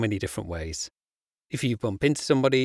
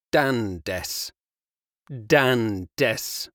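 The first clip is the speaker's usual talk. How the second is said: slow. Shown as a demonstration. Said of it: "insert your name there".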